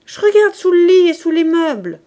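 very loud, high call; shouting back. A narrator's reading. Daughter answers impatient father, shouting back. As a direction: holler your excuse to the next room.

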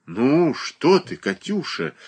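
slowly, in disbelief; astonished. A narrator's reading. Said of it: "изумилась Марья Дмитриевна". (изумлённо)

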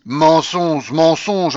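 loud, high, cutting retort; abrupt interruption. A narrator's reading. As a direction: slap the word down twice. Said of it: "interrompit brusquement la babouchka".

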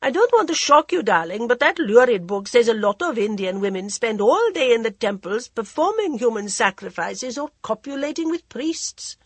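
languid society lady, teasing; a drawling, worldly hostess; Lady Modi voice. Acted.

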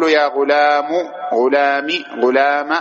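"غلام" ending in u, then i, then a; ghulamu, ghulami, ghulama for "غلام"; three vowel endings. Shown as a demonstration. Teacher reading out the three forms, "غلام" with each short vowel. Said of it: "بالثلاث".

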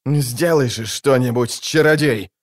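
barked. Acted. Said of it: "рявкнул он".

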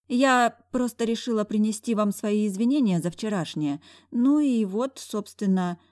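put-on high, timid blushing girl; shy girl. A narrator's reading. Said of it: "зарделся мой пугливый пончик".

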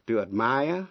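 ad-MIRE, rising on the second syllable; teaching ad-MIRE; verb stress on second syllable. Shown as a demonstration. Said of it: "To admire là khâm phục".

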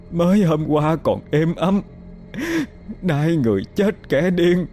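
soft start rising to a high wail; grieving lament. Acted. Widow lamenting over her husband's coffin, rising high wail. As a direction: pour out grief, voice climbing. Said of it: "miệng cứ lẩm bẩm".

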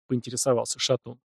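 ordinary delivery

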